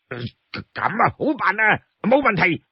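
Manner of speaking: eager brawler saying fine, fine; brute agreeing. Acted.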